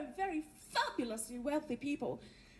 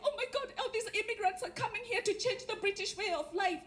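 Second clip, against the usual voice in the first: higher-pitched mock alarm over newcomers; hammed-up fretting, pitched up; mock freak-out; 4 semitones higher than usual. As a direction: imitate people panicking. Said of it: "everybody's freaking out".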